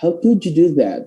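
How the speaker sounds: casual, unforced "How could you do that"; easygoing linked phrasing; relaxed. Shown as a demonstration. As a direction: say it lightly, without pressing. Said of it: "mau yang ngomongnya santai".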